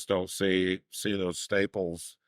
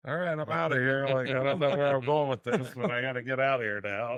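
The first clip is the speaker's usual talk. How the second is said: higher-pitched retold line, hurried to get away; imitated crew member; 6 semitones higher than usual. Team member retelling a stunned colleague's exit, higher-pitched imitation. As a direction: lightly mimic someone backing out of there. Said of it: "he's like".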